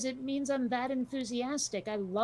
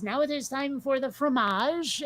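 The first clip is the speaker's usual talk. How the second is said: fancy French waiter; 4 semitones higher, 4 dB louder than usual. Retold or imitated. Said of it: "he says".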